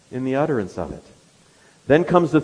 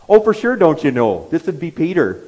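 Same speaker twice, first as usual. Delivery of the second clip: put-on a touch of a northern US accent, for sure don't you know; lightly put-on northern accent, a bit louder; 4 semitones higher, 5 dB louder than usual. Preacher mimics Peter's northern Galilean speech with a northern accent. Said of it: "it's Peter's accent that gives him away".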